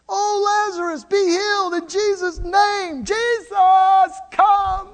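high, pleading prayer; praying sisters. Acted. Mary and Martha praying for Jesus to come. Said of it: "They prayed".

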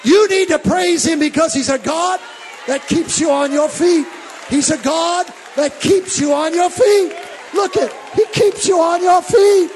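from steady preaching up to a loud shout; fiery preacher climbing to a shout; building preaching. Acted. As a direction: build the sermon to a full-throated cry.

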